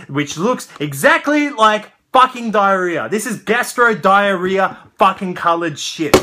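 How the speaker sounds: loud, high indignant tirade; angry rant. Real, not acted. Reviewer disgusted by the toy's colour, loud high rant. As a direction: fume at how bad it looks.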